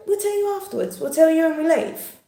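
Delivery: put-on high-pitched kids' voices; imitated children. Children putting Mum off until outside, imitated high voices. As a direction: put on children promising to tell later.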